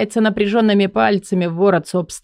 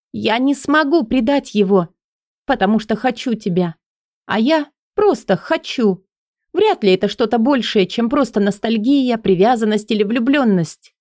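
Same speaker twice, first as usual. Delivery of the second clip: Элли's voice; 5 semitones higher than usual. Acted. Элли voiced, higher pitch.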